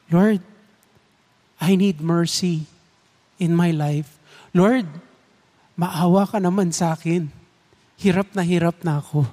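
heartfelt prayer. Pretend. Voices listener's heartfelt prayer.

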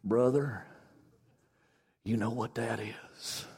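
low, hushed, slow Alabama drawl; unhurried, deep, quiet Southern accent. Retold or imitated. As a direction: imitate a camp preacher's soft Southern drawl. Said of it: "he said in his Alabama Southern drawl".

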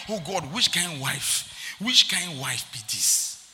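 slow, mock-exasperated grumble to God; complaining prayer. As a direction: draw out a husband's grievance.

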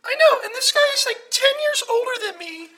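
fast, loud, climbing outrage; rising disgust. Acted. Caller to host, building outraged disgust.

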